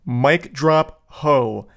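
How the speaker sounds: drawn out, very slow mic drop line; slow, mocking reading of his sign-off; slow mock delivery. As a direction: savour each word like a mic drop.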